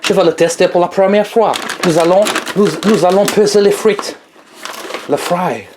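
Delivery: playful put-on English accent in French. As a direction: keep up a mock English accent. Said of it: "Je vais prendre l'accent anglais".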